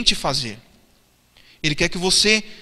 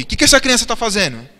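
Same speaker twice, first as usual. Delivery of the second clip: asked again, louder; 2 semitones higher, 5 dB louder than usual. Shown as a demonstration. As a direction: repeat the question louder. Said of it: "Eu não ouvi".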